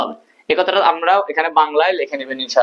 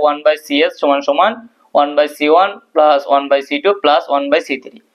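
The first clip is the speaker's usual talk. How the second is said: formula read out very slowly, term by term; slow dictation; much slower than usual. Shown as a demonstration. Teacher reading the formula to students, slow and spaced. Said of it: "প্রমাণ করো যে".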